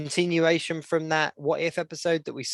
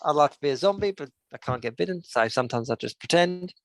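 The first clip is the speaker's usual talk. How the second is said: put-on Korg accent. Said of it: "I like my Korg accent".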